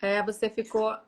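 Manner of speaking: choppy breaking-up call audio; corrupted glitchy audio. Real, not acted. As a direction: voice cutting out over bad Wi-Fi. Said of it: "você também ficou pra mim".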